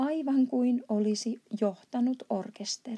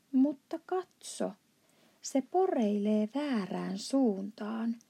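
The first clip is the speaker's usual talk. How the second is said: exclaiming. Acted. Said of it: "Sohvi huudahti".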